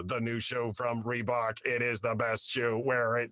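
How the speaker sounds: slow, lightly voiced robot read; a hint of a flat robot voice. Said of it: "robot voice".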